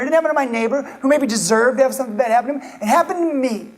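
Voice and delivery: indignant unfair protest. Acted. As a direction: push back like the wronged one. Voicing listener insisting it's unfair.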